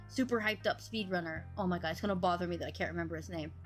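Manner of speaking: normal talking voice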